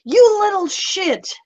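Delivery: high, drawn-out indignant cry; mock outrage. Player cursing the raven as it flies away, mock outrage. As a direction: curse after it with hammed-up indignation.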